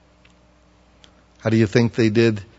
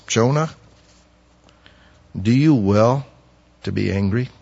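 calm question. Acted. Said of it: "the Lord calmly says".

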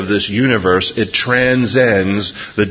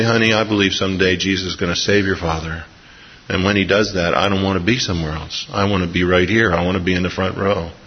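tender mother; 2 semitones lower, faster than usual. Retold or imitated. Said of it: "having her mom say".

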